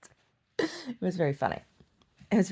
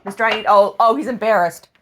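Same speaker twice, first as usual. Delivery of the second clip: pet talk; 6 semitones higher, 9 dB louder than usual. Real, not acted. Cooing at her dog.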